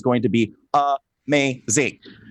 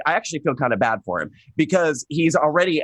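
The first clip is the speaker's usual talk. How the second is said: ordinary delivery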